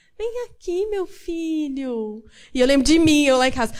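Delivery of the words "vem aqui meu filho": calm, sweet, gentle, honeyed voice, high and very slow. A mother imitates moms online calling their child, imitating a calm soft voice. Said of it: "Falando aquela voz calminha".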